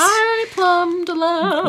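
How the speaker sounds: high, slow bright hello; sing-song greeting. Real, not acted. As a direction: stretch out a cheery hi.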